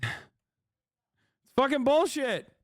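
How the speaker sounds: sigh, then drag it out slow and high; exaggerated exasperation. Shown as a demonstration. Streamer mock-complaining about no Russian money, drawn-out high exasperated whine.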